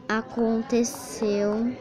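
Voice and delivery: drawn-out, slow word as she types; dictating while typing. Real, not acted. Typing a message to her friend, slow dictation. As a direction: spell it out slowly while typing. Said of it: "eu tô digitando".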